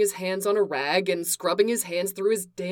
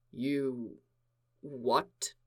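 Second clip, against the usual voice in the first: crisp fury; 7 semitones lower, 9 dB quieter than usual. Acted. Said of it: "Each syllable was crisp".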